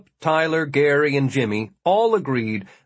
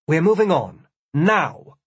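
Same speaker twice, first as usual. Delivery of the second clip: firm command; 4 semitones higher, 3 dB louder than usual. Acted. Gwen cuts discussion short firmly.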